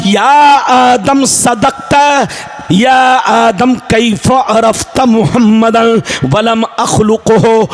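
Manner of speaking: rhythmic, chanting sermon delivery with stretched words; full-force preaching. Acted. Preacher relays God's question to Adam, rhythmic chanted preaching. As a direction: preach it in measured, ringing phrases.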